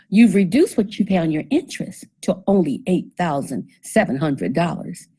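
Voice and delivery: mock good news, understated; sarcastic. Presenter to audience on interest supposedly reduced, sarcastically. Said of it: "I'm saying that sarcastically".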